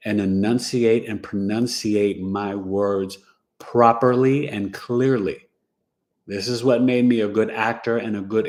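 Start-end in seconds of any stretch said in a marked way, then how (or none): 0.2-5.5 slow, carefully enunciated "properly and clearly"; proper diction. Shown as a demonstration. Recalling his mother's strict lessons, slow proper diction. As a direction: spell out each syllable of "properly and clearly" slowly and distinctly. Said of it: "I always had to have proper diction".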